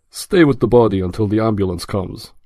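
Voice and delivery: loud, hammed-up bad Russian accent; terrible Russian accent. Podcaster imitating the film star's first line, terrible Russian accent. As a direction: put on an unconvincing Russian accent at full volume. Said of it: "delivers the first in a terrible Russian accent".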